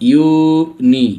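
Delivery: "ইউনি" slowly stretched as "iu... ni"; teacher stretching "ইউনি" into its sounds; drawn-out syllables. Shown as a demonstration. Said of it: "ইউ এর উচ্চারণ হয়েছে".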